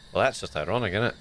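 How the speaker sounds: lightly put-on Scottish accent; bad Scottish accent. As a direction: have a go at sounding Scottish, badly. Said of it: "five minutes of bad Scottish accent".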